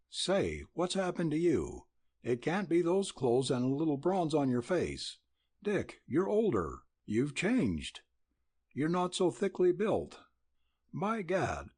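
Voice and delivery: cheerful cowboy teasing his pal; excited friend. Acted. Excited friend greeting, voiced higher.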